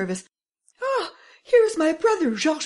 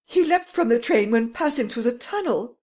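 higher, louder, eager insisting; insistent lady; 7 semitones higher, 5 dB louder than usual. Acted. Lady insisting to the commissary, high and loud. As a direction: press the detail on the commissary.

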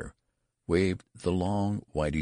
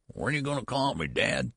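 put-on much higher and fast, a quavering old voice; 9 semitones higher than usual. A narrator's reading. Old son asking his father for a name, high and quavering. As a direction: plead timidly like a frail old man. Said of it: "he quavered".

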